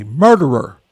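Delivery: imitating someone screaming an accusation; retold scream. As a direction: yell it like an accusation in someone's face. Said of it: "screaming at me".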